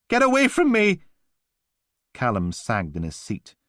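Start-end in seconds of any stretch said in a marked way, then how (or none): 0.1-1.0 high, loud angry yell; furious shout. Acted. Blakey shouting at the Mantis about the noise, furious. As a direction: tear into him.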